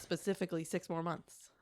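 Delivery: whispered joking aside; sly hushed punchline. Real, not acted. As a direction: drop to a conspiratorial whisper. Joking aside about transfer.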